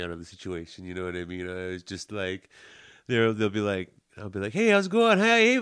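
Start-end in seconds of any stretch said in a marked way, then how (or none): 4.5-5.6 high, loud, chummy hello; breezy put-on bluff; mock friendly greeting. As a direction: imitate an overfriendly greeting. Voicing breezy greetings to forgotten acquaintances.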